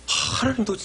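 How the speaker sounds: ordinary delivery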